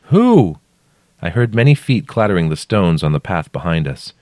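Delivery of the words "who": high, loud one-word question; calling down. A narrator's reading. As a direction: shout down, baffled. Narrator shouting down question.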